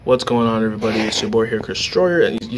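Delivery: flat, even intro voice; calm neutral greeting; neutral monotone. Shown as a demonstration. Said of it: "a nice little neutral monotone voice".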